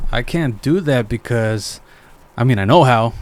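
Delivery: unhelpful coworker attitude. Retold or imitated. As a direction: lightly imitate a coworker stalling. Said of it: "remember how his attitude was like".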